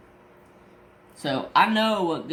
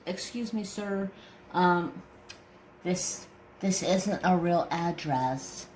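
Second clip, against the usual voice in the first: imitating the clerk; 4 semitones higher, slower than usual. Post office clerk voiced in story.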